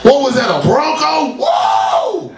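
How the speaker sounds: high, wide-eyed wonder; giddy amazement. Retold or imitated. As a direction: marvel at the car, high and bright. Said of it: "be like".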